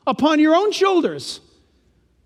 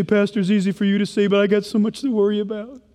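congregant objecting; 3 semitones lower than usual. Retold or imitated. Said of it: "You say".

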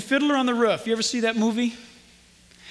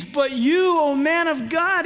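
raised, emphatic appeal; Paul's pleading; 4 semitones higher, slower than usual. Acted. Preacher voices Paul pleading with Timothy, raised and earnest. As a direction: plead with him, pitch lifted. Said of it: "and he pleads".

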